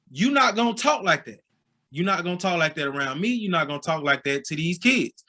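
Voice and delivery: stern mother voice, lightly done; imitating scolding mom. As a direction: mom scolding grown son at practice. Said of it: "smacks me in my mouth".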